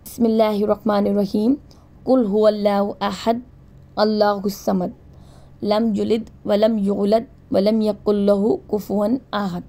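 slow, measured recitation of the surah; unhurried devotional reading; slow Quran recitation. Shown as a demonstration. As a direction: recite it slowly for learners to follow. Recites Surah Ikhlas as model.

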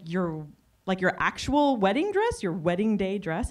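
double-check it in mild disbelief; mild incredulous questioning. Retold or imitated. Caller asking a customer about her wedding dress, mildly incredulous.

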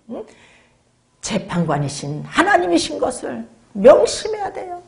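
ordinary talk

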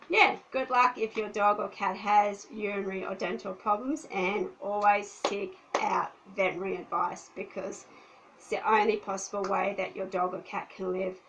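croaky, losing voice; rough, worn-out frog voice; hoarse voice. Real, not acted. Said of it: "I'm sick of talking like a frog".

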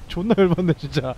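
ordinary talk, nothing marked

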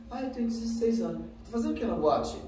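put-on high, boyish voice of a teenage kid; a boy in a nightclub, voiced high and boyish; young boy. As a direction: play the cheeky sixteen-year-old boy.

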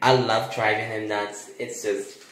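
low, lightly voiced boy letting out his secret; sly kid confession. Boy admitting he bluffs his father, sly and smug. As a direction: confide it smugly, slowing down.

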